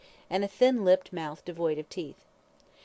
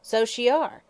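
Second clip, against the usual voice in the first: louder, higher angry hag; angry growl; 6 semitones higher, 7 dB louder, slower than usual. Acted. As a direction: grumble it angrily. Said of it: "growled Mother Guttersnipe angrily".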